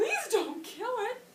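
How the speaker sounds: tearful, sobbing wail, very high and loud. Acting out a child begging her father to spare a pig; sobbing as Fern. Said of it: "these words you're going to say like you're sobbing".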